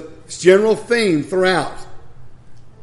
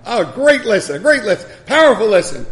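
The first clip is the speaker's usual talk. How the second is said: mock praise; 4 semitones higher, 5 dB louder than usual. Mock praise of own sermon.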